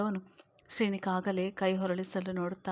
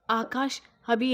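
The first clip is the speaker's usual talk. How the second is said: alarmed call; 3 semitones higher than usual. Acted. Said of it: "ಎಂದರು ಗಾಬರಿಂದ".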